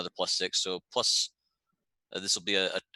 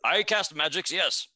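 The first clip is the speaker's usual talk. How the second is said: put-on poor Garundi accent; 4 semitones higher than usual. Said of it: "In a poor Garundi accent".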